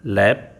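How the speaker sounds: लैप with a short flat ae vowel; English lap. Shown as a demonstration. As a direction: model लैप cleanly for learners. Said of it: "L A P".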